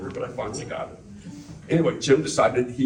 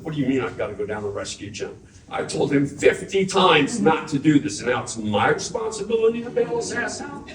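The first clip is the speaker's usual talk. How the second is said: indignant disbelief; 3 semitones higher than usual. Retold or imitated. Retold outraged reply to mom.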